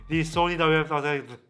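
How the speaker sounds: ordinary talk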